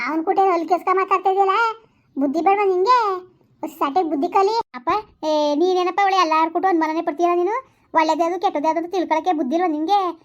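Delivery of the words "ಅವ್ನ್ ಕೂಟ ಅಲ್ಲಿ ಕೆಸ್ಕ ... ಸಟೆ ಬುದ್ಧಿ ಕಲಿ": scolding father. Acted.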